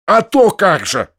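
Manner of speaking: rouses and exclaims, drawn out; eager outburst; startled cry. Acted. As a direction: jolts up with a loud retort. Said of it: "вскричал Бахчеев, встрепенувшись".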